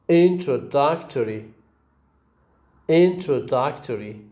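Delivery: "Introductory" stressed on IN and DUC; two stresses. Shown as a demonstration. Teacher shows example words, "Introductory" with two stresses, IN and DUC. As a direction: model "Introductory" with beats on IN and DUC. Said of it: "You see two stresses".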